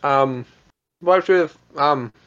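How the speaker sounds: talking while chewing; words round a mouthful; mouth full. Real, not acted. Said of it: "What are you eating?".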